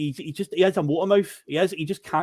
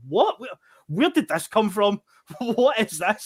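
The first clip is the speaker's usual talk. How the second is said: retold disbelief; 5 semitones higher, slower than usual. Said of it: "And I was like".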